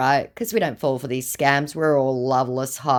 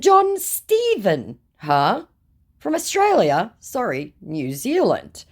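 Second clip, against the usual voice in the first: high, drawn-out sarcastic John Stephen; mocking disbelief; 7 semitones higher, 3 dB louder, slower than usual. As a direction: sneer at the fake name. Mocking the scammer back.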